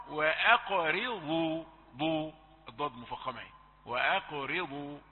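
وأقرضوا slow, ra light between heavy letters; careful model. Shown as a demonstration. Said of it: "فانتبه". (نطق متأن لوأقرضوا)

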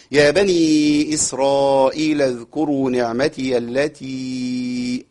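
slow, drawn-out tajweed chant; Quran recitation. Shown as a demonstration. Teacher recites a verse for his students, slow chant. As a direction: recite slowly with long vowels.

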